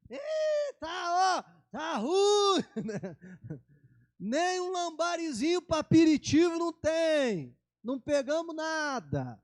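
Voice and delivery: high, loud mock complaint of tired fishermen; grumbling fishermen. Disciples answering Jesus from the boat, mock grumbling. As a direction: whine that the sea gave nothing. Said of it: "Eu fico imaginando eles".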